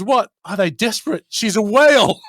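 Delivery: acted-out disbelief; incredulous. Ted reacting to mail order brides, incredulous.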